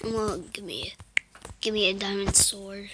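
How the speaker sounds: hushed whisper, begging; pleading whisper. Real, not acted. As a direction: whisper a wish for the sword. Begging for loot.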